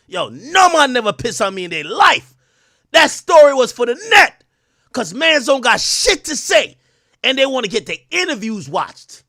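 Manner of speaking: high, loud mock Jamaican accent. Shown as a demonstration. Streamer demonstrating the Jamaican rule book to viewers, loud Jamaican accent. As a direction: cuss it out in a punchy Jamaican accent. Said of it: "giving y'all the Jamaican rule book".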